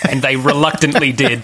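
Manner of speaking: words through a laugh; chuckling as he speaks; laughing while speaking. Real, not acted. Laughing while telling anecdote.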